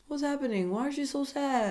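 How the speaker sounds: Peter. Retold or imitated. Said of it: "Even Peter was like".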